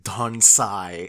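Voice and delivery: slow, loud announcer call of Don Sai. Shown as a demonstration. Describing a manga sound effect, calling Don Sai slow and loud like an announcer. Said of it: "announcing him in".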